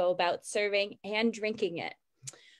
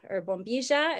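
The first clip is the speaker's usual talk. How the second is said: Uruguayan accent; 2 semitones higher than usual. Shown as a demonstration. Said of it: "if we are talking with an Uruguayan accent".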